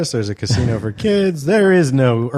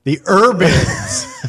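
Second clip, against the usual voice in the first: laughing disbelief; 7 semitones higher, 5 dB louder, much slower than usual. Real, not acted. Repeating friend's euphemism, laughing.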